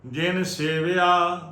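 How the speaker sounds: slow, measured sacred chant on a level tone; Gurbani recitation. Shown as a demonstration. Teacher reciting Gurbani for the congregation to learn, measured chanting. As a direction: recite scripture phrase by phrase, drawing out endings.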